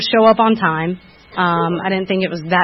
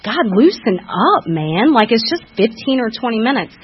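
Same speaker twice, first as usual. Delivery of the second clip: mock indignant retort, slow at first; half-hearted imitation of past anger; retold indignation; 3 semitones higher than usual. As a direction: replay your own huffy comeback. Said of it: "And I was so angry".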